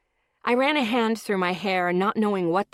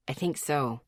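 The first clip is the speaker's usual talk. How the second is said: man's voice; 7 semitones lower, 5 dB quieter than usual. A narrator's reading. Miles voiced.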